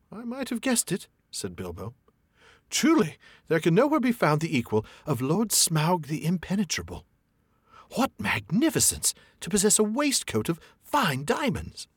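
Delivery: high, sugary mock praise; flattering hobbit. A narrator's reading. Hobbit buttering up the dragon, high voice. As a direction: lay the flattery on thick.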